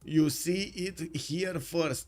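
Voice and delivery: very slow, drawn-out declaration; mock-grand announcement. Caster telling viewers of a world first, mock-grand. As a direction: proclaim it word by word.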